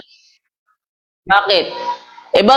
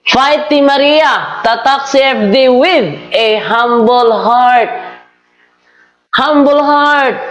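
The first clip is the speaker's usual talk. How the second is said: slow, drawn-out priest's catchphrase; measured, unhurried quote of the priest; Padre's way of talking; 2 semitones higher, much slower than usual. Retold or imitated. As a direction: lightly imitate a priest, stretching the words out. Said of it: "Ganyan si Padre magsalita".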